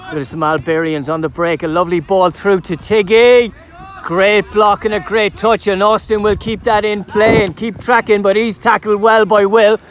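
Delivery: live football commentator following the ball; play-by-play commentary. Acted. Commentator describing play from kick-off, live play-by-play delivery. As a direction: call the match as it unfolds.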